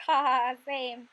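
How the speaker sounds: mock kid laugh. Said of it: "They're like".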